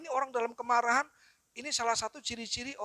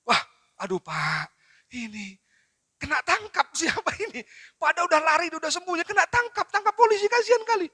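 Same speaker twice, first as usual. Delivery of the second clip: mock tearful lament; 7 semitones higher, 5 dB louder than usual. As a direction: imitate a drama viewer's distress, building high and loud. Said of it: "Nangis ibu ini gara-gara".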